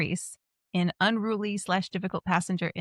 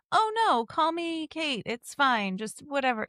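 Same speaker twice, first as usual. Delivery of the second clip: higher, casual brush-off of formality; breezy friendliness; 6 semitones higher than usual. Acted. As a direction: wave it away, friendly and informal. Voicing casual American politeness.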